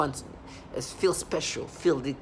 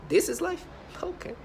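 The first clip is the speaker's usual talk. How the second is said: much higher, squeaky mocking pitch; mock squeal. Mimicking the voices she hears, squeaky high taunt.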